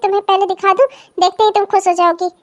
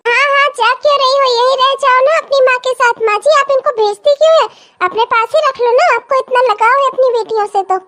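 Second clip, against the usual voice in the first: higher, mocking sing-song jibe; sarcastic taunt; 4 semitones higher than usual. Bhabhi mocks the daughter for leaving with a bag, sarcastic. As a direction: needle her with fake sweetness.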